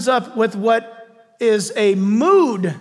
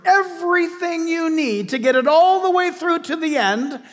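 rising preaching fervor; 5 semitones higher than usual. Real, not acted. Preacher building to a peak.

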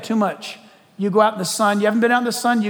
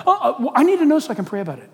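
fast, laughing mock-innocent excuse; hammed-up innocent gossip; fake pious excuse; 5 semitones higher, much faster than usual. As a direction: rush the pious excuse with a chuckle. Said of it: "gossip scene".

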